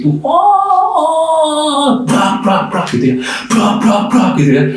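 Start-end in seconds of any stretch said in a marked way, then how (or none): 0.3-2.0 imitated anguished cry. Preacher imitating cries heard from the ER, high wailing. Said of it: "teriakan-teriakan yang menggelisahkan". 2.0-2.9 mock crash sounds, higher; imitated banging noise. Preacher imitating the noise in the ER, mock bangs. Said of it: "teriakan-teriakan yang menggelisahkan". 3.5-4.3 mock crash sounds, higher; imitated banging noise. Preacher imitating the noise in the ER, mock bangs. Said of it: "teriakan-teriakan yang menggelisahkan".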